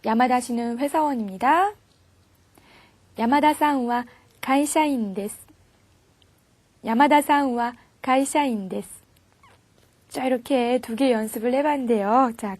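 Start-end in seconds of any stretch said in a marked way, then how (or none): 3.2-5.4 slow, clear model sentence; slow model reading. Shown as a demonstration. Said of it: "소개해보세요". 6.8-8.9 slow, clear model sentence; slow model reading. Shown as a demonstration. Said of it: "소개해보세요".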